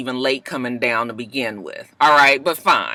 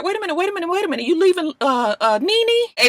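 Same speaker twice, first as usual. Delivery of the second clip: panicked calling out; 13 semitones higher, faster than usual. Retold or imitated. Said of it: "everybody was just like".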